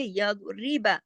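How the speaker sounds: दो said full and heavy, री thin; syllable-by-syllable demo; heavy dad. Shown as a demonstration. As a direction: recite या दो, री बा with a thick, rounded दो. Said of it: "दो को मोटा पढ़ेंगे".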